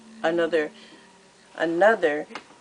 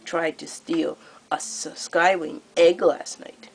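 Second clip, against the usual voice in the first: gleeful cruel queen; 7 dB louder than usual. Acted. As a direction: purr out the threat like a delighted tyrant. Queen Scarlet continues.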